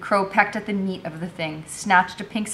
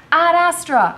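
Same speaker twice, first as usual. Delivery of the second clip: high, loud, drawn-out shout; ringing high-pitched shout; shouted password; 11 semitones higher, 9 dB louder, slower than usual. A narrator's reading. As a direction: call the password out loudly. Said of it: "I shouted".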